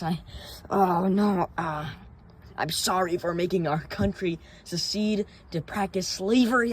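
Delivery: sarcastic impression of a leader's insincere sorry; mock apology as Jefferson Davis. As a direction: play a groveling Confederate leader saying sorry, half laughing. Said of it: "was like".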